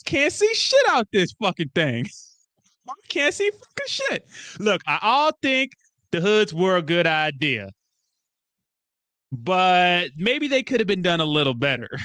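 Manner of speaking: hammed-up grumbling, then conceding slowly; bickering movie characters. Acts out hooded men's film scene.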